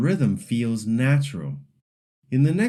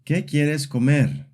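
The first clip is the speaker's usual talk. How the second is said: "¿Qué quieres comer?" falling at the end; question-word melody; 3 semitones higher than usual. Shown as a demonstration. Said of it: "W H question".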